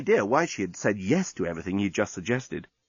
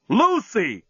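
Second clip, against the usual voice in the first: higher, louder Lucy; shocked exclaim; 9 semitones higher, 5 dB louder than usual. A narrator's reading. Dan finding Lucy with the journalist, shocked. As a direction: catch her in the act. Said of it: "exclaimed Dan".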